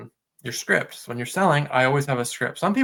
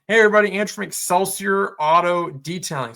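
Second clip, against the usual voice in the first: higher, measured intro with every word distinct; carefully pronounced; 5 semitones higher, 4 dB louder than usual. Shown as a demonstration. Host demonstrates his improved intro to listeners, carefully pronounced. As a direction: take time over each word of the business name. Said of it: "taking the time to pronounce everything".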